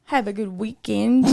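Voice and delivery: badly faked Irish accent; clumsy Irish accent that lands Southern; attempted Irish accent. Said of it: "say goodbye in your best Irish accent".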